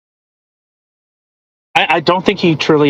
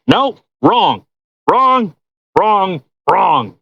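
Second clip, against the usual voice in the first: emphatic denial; 2 semitones higher, much slower than usual. Real, not acted. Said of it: "Do I have to do it again?".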